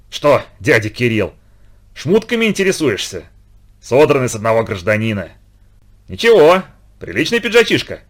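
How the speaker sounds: harsh, spitting out each word; hoarse mocking voice. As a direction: sneer it, deliberately harsh and raspy. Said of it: "Был он хриплый, насмешливый, нарочито резкий".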